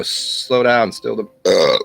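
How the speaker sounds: drawn-out "slow", mock guru; mock soothing instruction. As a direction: stretch it out like a calming teacher. Mock instructing a confused person.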